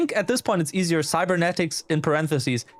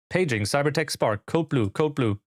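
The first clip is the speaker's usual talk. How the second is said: intercom page; slower than usual. Acted.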